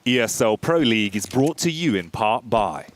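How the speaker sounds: crisp, pristine sponsor read. Acted. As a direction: read it like a polished ad spot. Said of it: "give us one of your crispy, pristine".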